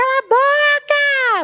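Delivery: mock, shrill, very high-pitched angry yell. Describing a noisy home where one person yells at another, imitating someone shouting. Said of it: "é a outra que grita".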